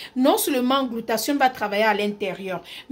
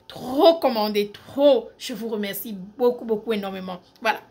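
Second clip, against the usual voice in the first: ordinary talk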